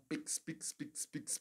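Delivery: whispering the word Pix over and over; a playful secret whisper. Acted. Asking viewers for donations, he whispers Pix.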